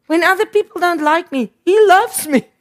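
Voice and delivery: builds up, loud on loves me; rising emphasis. Real, not acted. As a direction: swell up to he loves me.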